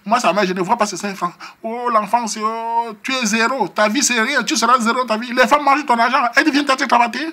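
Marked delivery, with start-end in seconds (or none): 1.6-7.3 high, loud imitation of mum shouting; mother scolding. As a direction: scold him in front of the crowd. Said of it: "Elle a commencé à crier là-bas". (maman qui crie, imitée aigu et fort)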